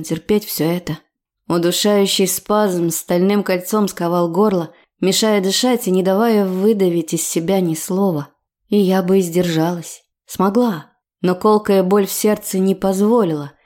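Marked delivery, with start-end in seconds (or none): none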